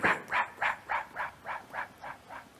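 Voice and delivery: whispered rap rap dying away to nothing; echoing whispered rap fading out. Acted. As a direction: let each rap fade into a whisper.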